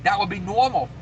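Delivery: hammed-up Boston accent on the vowels; lightly mimicked Boston talk. Shown as a demonstration. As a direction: put on a mock Boston accent. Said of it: "I'm talking with an accent".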